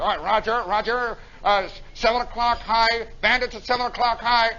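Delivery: cool, unruffled movie-pilot intercom voice; movie pilot radio talk. Acted. Imitating movie pilots on the intercom, composed radio talk. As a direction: read the radio call evenly, like a film pilot. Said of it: "isn't it great how they talk in movies".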